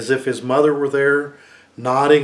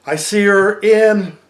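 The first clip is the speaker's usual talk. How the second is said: lame finish; 7 semitones higher, 6 dB louder, slower than usual. Acted. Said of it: "he finished lamely".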